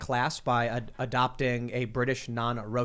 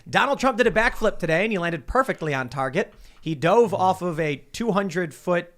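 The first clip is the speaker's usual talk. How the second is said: mock news anchor; 3 semitones higher, 5 dB louder than usual. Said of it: "Brian Stelter came out and was like".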